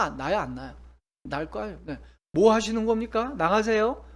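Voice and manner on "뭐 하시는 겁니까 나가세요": louder, sharp indignant demand; preacher ordering a heckler out, loud and angry. Shown as a demonstration. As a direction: rebuke the heckler loudly. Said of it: "화를 낼 수 있".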